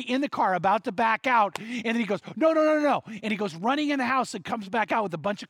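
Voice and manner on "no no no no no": higher, louder string of no's; retold sudden alarm, blurt it out; urgent exclamation. Sudden realisation before backing out.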